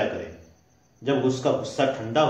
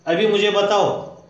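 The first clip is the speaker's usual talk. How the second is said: demanding angry wife; 5 semitones higher, 3 dB louder than usual. Retold or imitated. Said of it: "फिर भी कहते हैं".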